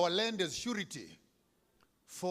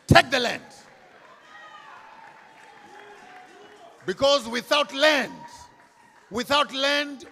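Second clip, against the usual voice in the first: fiery shout; 6 semitones higher, 6 dB louder than usual. Real, not acted. Speech climax, crowd rally.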